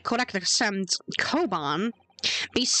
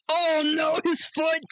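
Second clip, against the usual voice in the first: surprised; 8 semitones higher than usual. Acted. Sudden alarm.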